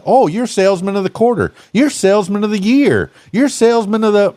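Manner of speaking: mock boss praise. Mocking boss handing out awards.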